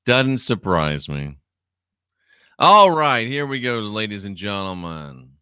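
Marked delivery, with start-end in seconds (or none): 0.1-1.4 slow, dry "Doesn't surprise me"; slow dry repeat. Shown as a demonstration. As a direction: drag it out unimpressed.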